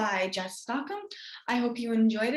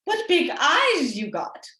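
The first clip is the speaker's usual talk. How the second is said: put-on girl's wonder; 3 semitones higher, 4 dB louder, slower than usual. Girl peering at wolf.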